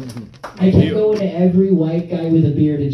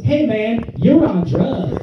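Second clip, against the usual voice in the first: laid-back stranger; 6 semitones higher, slower than usual. Retold or imitated. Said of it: "one person just goes".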